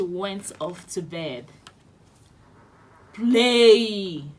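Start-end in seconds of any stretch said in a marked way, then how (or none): 3.1-4.3 one loud roared command; giant roaring. Acted. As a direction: roar the word at the harp. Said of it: "roared the giant".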